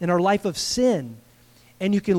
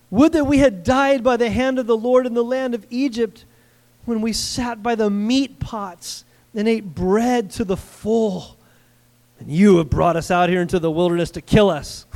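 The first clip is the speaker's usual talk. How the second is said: loud whiny complaining; grumbling complaint; 3 semitones higher, 4 dB louder than usual. Acted. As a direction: gripe like starving Israelites. Preacher acting grumbling Israelites.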